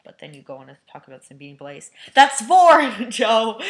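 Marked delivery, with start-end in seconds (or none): 2.1-3.6 laughing. Real, not acted. Laughing call to friend.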